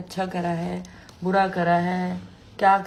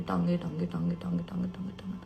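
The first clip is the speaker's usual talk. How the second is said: fading repetition; 6 dB quieter, much faster than usual. Retold or imitated. Mimics endless repeats while scrolling reels.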